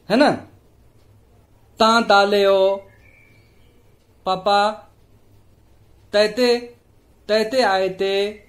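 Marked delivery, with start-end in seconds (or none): 1.8-8.4 put-on light baby-talk lisp, t for k and ch; teacher lightly mimics a small child's lisp. Shown as a demonstration. Teacher showing students how a lisping child calls papa, in a mild lisping voice. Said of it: "कोई तोतला के बोलते हैं".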